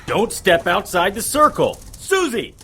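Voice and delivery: loud warning ending in a high cry of her name; urgent shout rising to a scream. Acted. Harry shouting after Susie as she leaves the circle, high call.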